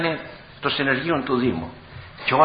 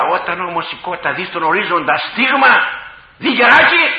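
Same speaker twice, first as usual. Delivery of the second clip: alarm cry; 4 semitones higher, 6 dB louder than usual. Retold or imitated. Hen spots a hawk on the horizon, rising alarm. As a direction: voice rising to a loud, high cry. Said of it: "τότε αλλάζει φωνή".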